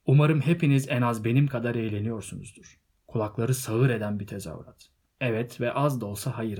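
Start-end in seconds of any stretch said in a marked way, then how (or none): 0.1-2.8 louder address to a crowd; public speech. A narrator's reading. Bilbo addressing his party guests, loud speech. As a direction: project it to all the guests.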